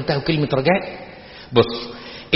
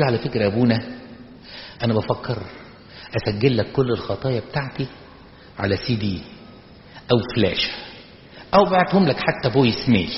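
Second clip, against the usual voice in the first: dejected confession; 2 semitones lower, 3 dB quieter than usual. Acted. Hopeless churchgoer confessing to the priest, dejected. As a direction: confess with a hollow, frustrated half-smile. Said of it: "فيجي يقولها كده بابتسامة صفرة ملهاش معنى غير الإحباط".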